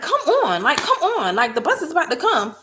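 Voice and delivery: high laughing hurry-up; laughing urging. Retold or imitated. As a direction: urge her on through a laugh. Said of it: "I'm like".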